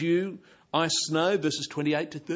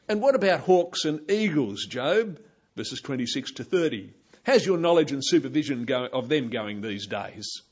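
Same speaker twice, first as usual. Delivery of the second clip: sarcastic; 5 dB louder than usual. Pretend. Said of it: "tone of sarcasm".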